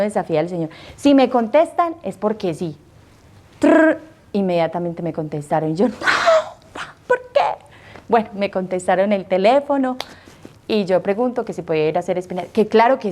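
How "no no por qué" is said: high startled no, no; alarmed protest. Retold or imitated. Caller hearing the convent answer at once, high startled protest. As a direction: squeak out the protest in shock. Nun call answered immediately.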